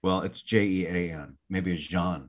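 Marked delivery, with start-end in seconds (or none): 1.9-2.3 "Jean" said the French way, like "zhahn"; soft French zh and nasal vowel in "Jean"; French pronunciation. Shown as a demonstration. Suggests another reading of J-E-A-N.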